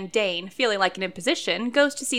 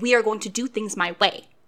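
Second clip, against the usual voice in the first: authoritative, firm, no-nonsense tone. Showing how to take charge of a caller: firm mom voice. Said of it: "You put on your mom voice".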